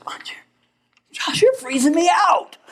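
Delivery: high, laughing wife's complaint; mock complaining wife. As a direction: whine it like the cold wife, laughing. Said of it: "And the wife says".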